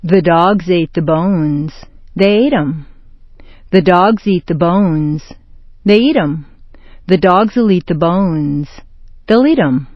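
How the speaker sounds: "dogs" and "bones" stressed, then the verb "eat" stressed in "They eat 'em"; noun then pronoun stress. Shown as a demonstration. Teacher demonstrates the shift of stress to the verb. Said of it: "all that looks and sounds like".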